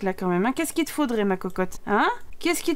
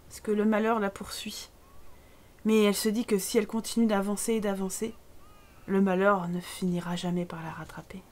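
soft, solemn storytelling; hushed mock-tragic voice-over; tragic narration; 3 semitones lower, 5 dB quieter than usual. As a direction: narrate the sad fate quietly. Narrates the Sim's sad fate.

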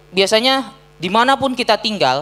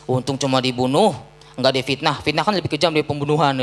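resigned bystander; 5 semitones lower than usual. Retold or imitated. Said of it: "Apa kata orang?".

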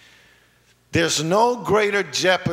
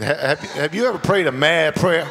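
preaching shout. Real, not acted. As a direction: call it out to the church.

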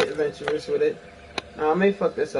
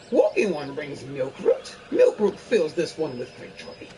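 fairy voice. Acted. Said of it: "my best fairy voice".

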